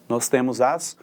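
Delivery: normal talking voice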